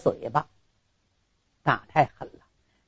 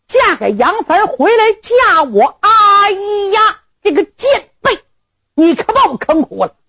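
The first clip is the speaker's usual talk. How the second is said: angry outcry; 11 semitones higher than usual. Acted. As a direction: cry out in betrayed rage, pitched high. Groom rages at bride's betrayal.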